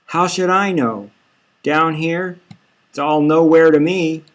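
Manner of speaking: on the edge of tears; still hysterical. Acted. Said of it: "She's hysterical".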